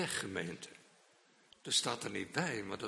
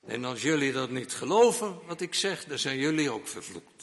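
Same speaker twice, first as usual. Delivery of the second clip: heated curse; 6 dB louder than usual. Retold or imitated. Peter cursing the bystanders.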